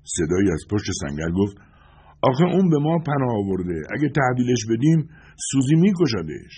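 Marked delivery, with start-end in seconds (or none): 2.2-6.5 high-pitched protesting character voice; voice from the barricade. A narrator's reading. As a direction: protest from cover in a raised pitch. Voicing man behind barricade, protesting. (صدای زیر و معترض از پشت سنگر)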